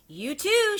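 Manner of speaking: high, loud shout; the last duckling shouting encouragement. Acted. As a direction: push the next one on. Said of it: "she shouts".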